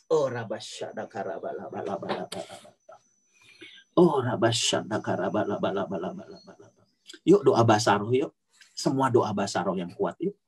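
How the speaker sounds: fervent spoken prayer, tongues then petitions; praying in tongues. Acted. Sister prays over the children online, fervent prayer. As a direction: pour it out to God over the kids.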